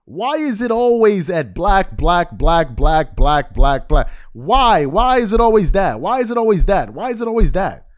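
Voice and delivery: loud, hammering repetition; exasperated rant. Real, not acted. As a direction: pound the question out over and over. Exasperated rant, repeated question.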